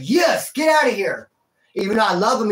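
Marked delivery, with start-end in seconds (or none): 0.0-1.3 relieved yell. Retold or imitated. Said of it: "I was like".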